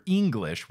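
"English" with a long EE at the start; mock-French "English", opening on a stretched ee; French-accented pronunciation. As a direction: say "English" as "Eenglish", drawn out. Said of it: "with two E's".

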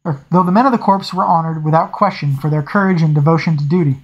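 steady audiobook reading voice; story narration. A narrator's reading. Reader narrating a naval scene for listeners, steady storytelling. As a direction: read the novel to your listeners. Reads novel aloud.

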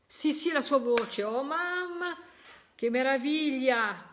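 rising, loud cry of joy; overjoyed. Real, not acted. Medium to grieving mother, overjoyed cry. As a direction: burst out in delight at the voice. Medium hears the dead son's voice.

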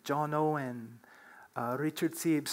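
ordinary delivery

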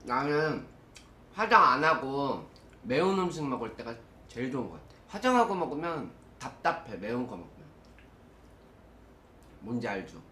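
food in mouth; chewing while talking. Real, not acted. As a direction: between bites of chicken. Seen 3: Holds red-sauced chicken, lips working, chewing between phrases throughout.

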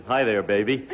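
low, joking come-on from a "wolf"; mock lady-killer greeting; wolf impersonation. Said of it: "My impersonation of a wolf is".

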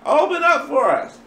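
high, calling voices; pleading maidens. Acted. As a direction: beg to be let in.

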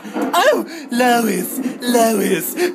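high, loud, frightened wail; scared calling out. Acted. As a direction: cry out for mummy. Scared of thunder, calling mother.

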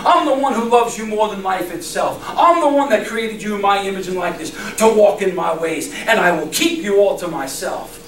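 a lightly voiced God reassuring his people; speaking as God. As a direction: lightly voice God's tender promises. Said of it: "because God has said".

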